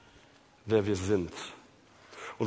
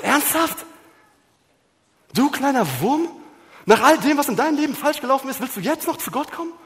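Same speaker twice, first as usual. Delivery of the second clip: much higher, sneering voice, fast at the end; mocking inner voice; 12 semitones higher, 5 dB louder, faster than usual. Preacher voicing the lie that mocks a repentant listener, high and sneering. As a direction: taunt like a spiteful little devil. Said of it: "diese Stimme dir sagt".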